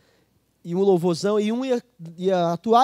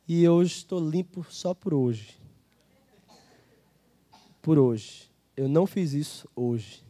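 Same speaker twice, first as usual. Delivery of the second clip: humble confession; 4 semitones lower than usual. Shown as a demonstration. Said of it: "Eu vou repetir de novo".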